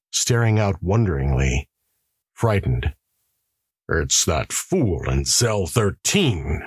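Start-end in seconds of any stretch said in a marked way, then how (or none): 3.9-6.6 grumbling warden. Acted. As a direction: mutter it as an irritated warden. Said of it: "grumbled the warden".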